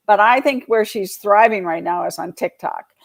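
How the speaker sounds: ordinary talk, nothing marked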